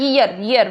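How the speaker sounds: ईयर begun with a Y sound; ईयर slowly with a Y glide; sounding out year. Shown as a demonstration. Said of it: "ईयर से बोलना है".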